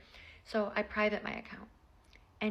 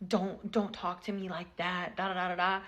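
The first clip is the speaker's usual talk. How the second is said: mocking his voice; 2 semitones lower than usual. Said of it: "and he's like".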